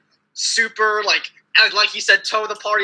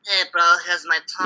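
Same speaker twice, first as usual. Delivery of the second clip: mocking his voice; 4 semitones lower, 3 dB quieter than usual. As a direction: lower and softer, lazy mumbling mockery. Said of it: "but then when you speak".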